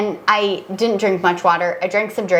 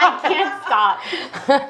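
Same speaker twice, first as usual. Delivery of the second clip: laughing; much slower than usual. Real, not acted. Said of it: "laughing while licking lips".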